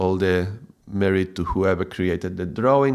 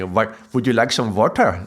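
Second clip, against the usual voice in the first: put-on Indian English accent. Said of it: "when they put the tongue there".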